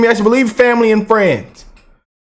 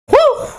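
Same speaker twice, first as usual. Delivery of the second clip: high excited woo; excited whoop. Real, not acted. Cheering after the imitation.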